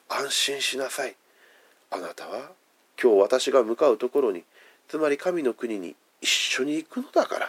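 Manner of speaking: a lightly voiced Jesus soothing a dying man; calm reassuring voice.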